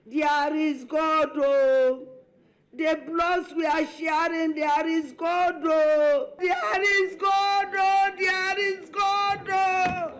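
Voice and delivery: slow, rising wail; wailing lament. Retold or imitated. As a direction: build the lament slowly. First Lady's wail building.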